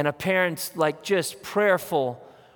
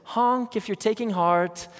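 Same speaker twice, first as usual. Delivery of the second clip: slow, sing-song bumper-sticker chirp; mock cheery slogan; 4 semitones higher than usual. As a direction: read it like a cutesy slogan. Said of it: "a bumper sticker that says".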